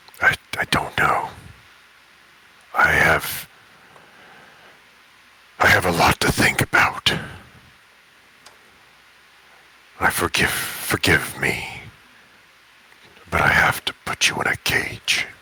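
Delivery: slow, gravelly were-creature voice. Voicing the wereboar who must put the player in a cage: gravelly wereboar voice. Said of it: "my were Lycan voices ... kinda gravelly".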